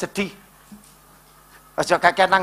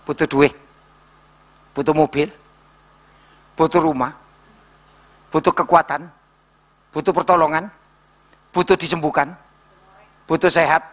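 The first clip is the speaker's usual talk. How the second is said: lower, gentle questions; God asking; 5 semitones lower than usual. Acted. God questioning the congregation, gentle and low. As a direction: list each need calmly and low. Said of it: "Tuhan itu ngeluh-ngeluh".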